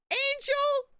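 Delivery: high, loud mock excitement; hammed-up delighted greeting. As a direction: squeal a gushing, over-the-top hello. Greeting a game character with mock delight.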